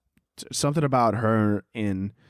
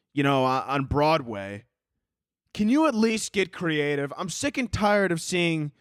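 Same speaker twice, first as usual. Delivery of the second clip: higher-pitched, fed-up pleading; exasperated rant; 5 semitones higher than usual. Real, not acted. Host fed up with street interviewers, exasperated.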